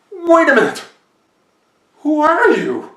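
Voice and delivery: high, loud startled cry; startled shout. Acted. Farmer startled by the creature, loud high shout. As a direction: jolt back and shout at the stranger.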